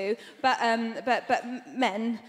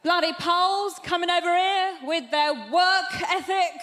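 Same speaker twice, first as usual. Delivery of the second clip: higher, slightly louder indignant bloke; grumbling racist bloke; 4 semitones higher, 4 dB louder than usual. Acted. Bloke griping about Polish immigrants, mock indignant. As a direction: put on a complaining bigot's voice. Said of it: "I heard this one bloke go".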